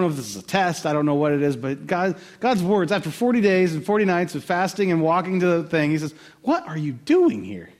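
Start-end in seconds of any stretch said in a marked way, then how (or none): 6.4-7.7 slow question. Shown as a demonstration. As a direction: draw the question out slowly. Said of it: "I don't know the inflection in God's voice".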